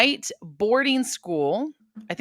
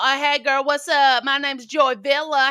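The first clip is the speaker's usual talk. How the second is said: higher, mock Black-accent greeting; put-on Black accent; 4 semitones higher, 3 dB louder than usual. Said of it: "And then I'm all".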